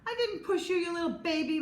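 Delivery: high, loud taunting denial; snapping back. A narrator's reading. Max denies pushing Chloe, high loud taunt. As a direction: sneer it at the crybaby.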